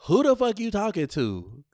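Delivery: high, loud confrontational yell; mock angry shout. Shown as a demonstration. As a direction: shout it at him. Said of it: "repeats scripted line".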